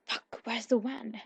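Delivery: a thug yelling for the van; shout. A narrator's reading. Fleeing thug shouts to his mates, loud and urgent. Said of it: "one of them shouts".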